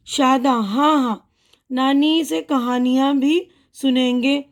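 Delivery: put-on slow, careful reading of a children's dialogue; reading a dialogue aloud. Shown as a demonstration. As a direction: read each child's line slowly for the class. Reads children's dialogue to class. (बच्चों के लिए धीरे-धीरे पढ़ना)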